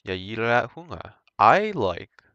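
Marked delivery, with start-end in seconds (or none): 0.0-1.1 "Jag gillar att sjunga" spoken as native Swedish; Swedish sentence. Shown as a demonstration. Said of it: "there we go".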